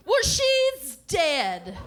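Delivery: high, very drawn-out announcement; blunt mom. Retold or imitated. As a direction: imitate a mother dragging out her news. Mother delivers the blunt punchline.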